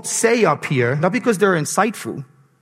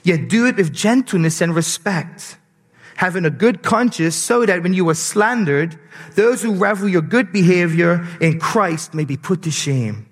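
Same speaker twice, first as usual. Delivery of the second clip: solemn Bible reading; scripture reading. Acted. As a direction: read the passage with weight. Reads scripture aloud.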